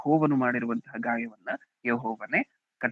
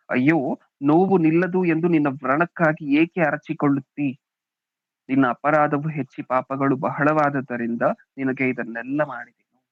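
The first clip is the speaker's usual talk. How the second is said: scripture reading; 3 dB louder than usual. Acted. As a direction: read the verse out to the congregation. Reads the verse again. (ವಚನವನ್ನು ಘೋಷಿಸುವಂತೆ ಓದುವ ಧ್ವನಿ)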